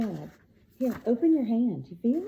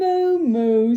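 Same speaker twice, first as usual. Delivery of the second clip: a louder, playful mooing cow; 7 dB louder than usual. Acted. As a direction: moo it out for the child. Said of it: "says the cow".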